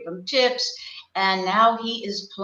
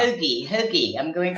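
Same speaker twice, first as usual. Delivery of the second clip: put-on Philly accent. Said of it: "let's hear your Philly accent".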